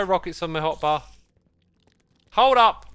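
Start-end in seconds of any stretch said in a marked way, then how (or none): 2.3-2.9 sharp high shout; screaming at a spider. Real, not acted. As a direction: cry out in alarm. Spider attack continues.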